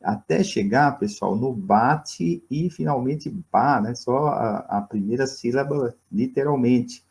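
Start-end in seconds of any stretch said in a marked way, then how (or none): 1.5-3.8 slow, syllables spelled out. Shown as a demonstration. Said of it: "eles vão tirando uma sílaba".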